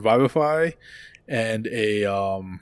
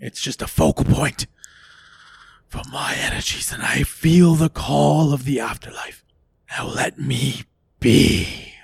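put-on ghost girl hiss; 2 semitones higher than usual. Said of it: "She hisses at it".

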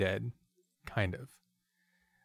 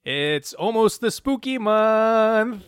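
spooky announcer; 11 semitones higher, 8 dB louder, much slower than usual. Acted.

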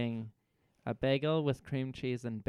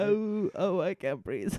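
wheezy, pained grape lady moans; 4 semitones higher than usual. Retold or imitated. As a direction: wheeze out each oh like you fell hard. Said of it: "She does say that".

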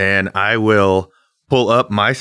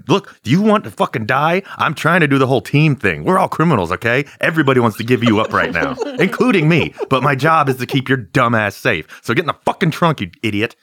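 stern, raised-pitch scolding; angry; 4 semitones higher than usual. Pretend. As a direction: chew him out. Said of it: "drag him outside and be like".

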